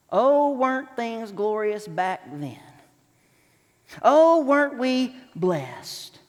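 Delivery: slow, wistful nostalgic longing; drawn out, dreamy mock nostalgia; nostalgic sigh. Churchgoer pining for the past, slow nostalgic longing. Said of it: "we focus on the past".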